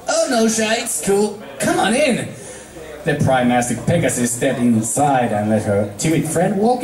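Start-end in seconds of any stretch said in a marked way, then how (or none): 0.1-2.3 high, easygoing tomboy voice; Rainbow, relaxed; Rainbow Dash. Acted. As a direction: wave her in casually. Rainbow invites her in.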